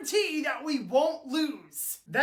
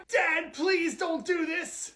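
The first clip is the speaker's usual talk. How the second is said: higher, drawn-out plea to dad; pleading; 4 semitones higher, slower than usual. Acted. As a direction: beg him to stop, slowly. Son begs father to stop.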